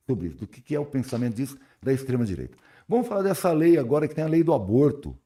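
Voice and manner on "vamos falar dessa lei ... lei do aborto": cold, shivering voice. Real, not acted. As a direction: talk while shivering from the cold. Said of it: "Tô morrendo de frio".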